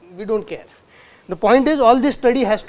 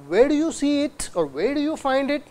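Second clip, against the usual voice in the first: "Where do you find it" in a higher questioning tune; rising intonation; 4 semitones higher, 3 dB quieter than usual. Shown as a demonstration. Lecturer demonstrating question melody, rising intonation. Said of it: "it's a rising intonation".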